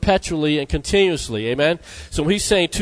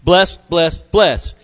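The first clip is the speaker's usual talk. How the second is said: "Bless" punched each time, falling; each "bless" stressed on its own; drummed-in repetition; 3 dB louder, much slower than usual. Shown as a demonstration. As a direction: drum "Bless" in, one separate beat after another. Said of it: "get the word bless into our hard heads".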